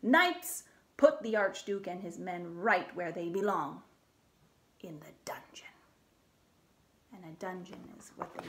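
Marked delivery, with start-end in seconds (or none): 0.0-5.7 commanding king. Acted.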